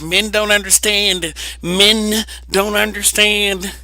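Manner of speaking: imitating a tired old complaint; mocking whine. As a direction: drag it out like a sing-song gripe. Mimicking women's complaint.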